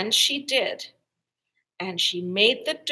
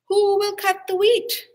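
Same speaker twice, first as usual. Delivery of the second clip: higher and louder brisk call; 10 semitones higher, 6 dB louder than usual. A narrator's reading. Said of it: "So she called about briskly".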